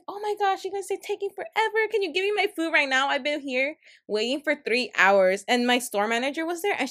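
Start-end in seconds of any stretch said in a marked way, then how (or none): 0.1-5.4 high, whiny demanding customer; mock the pushy customer, pitched up; impatient customer. Coworker imitating a rude customer demanding food. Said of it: "And then she's like".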